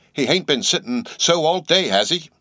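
high, puzzled landlady; landlady asks. A narrator's reading. Landlady puzzling over Queequeg sitting still, high. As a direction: ask in disbelief. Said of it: "said the landlady".

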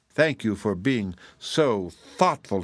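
slow, sincere thanks; grateful. Acted. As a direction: say it slowly, truly thankful. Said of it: "he said gratefully".

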